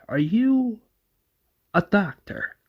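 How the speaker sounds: lightly acted, high-pitched query; questioning soldier. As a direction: ask it high and drawn out. Soldier questions the doctor in story.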